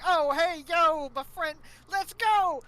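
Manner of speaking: loud, high, hammed-up New York accent; bad New York accent. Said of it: "bad New York accent".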